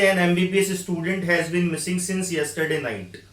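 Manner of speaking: slow, careful reading of an example; slow example sentence. Shown as a demonstration. Teacher reads an example sentence to students, slow and careful. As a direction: read it out slowly so students catch the article. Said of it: "जैसे".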